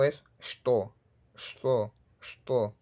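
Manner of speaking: sto as "shto", no vowel before it; correct pronunciation. Shown as a demonstration. Teacher correcting isto and esto, sto modelled as "shto". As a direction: start sto straight on the sh. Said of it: "pero no es isto u esto".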